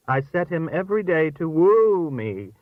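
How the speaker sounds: high, swooping howl. A narrator's reading. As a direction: howl it out like a blaring playback. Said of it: "Anne howled from the machine".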